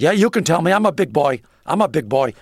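imitating Steinbrenner. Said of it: "And he said".

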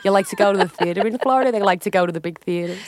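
quick, pushy Long Island housewife; a hint of Fern nagging. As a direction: press for details, calling her darling. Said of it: "I know many Ferns in Florida".

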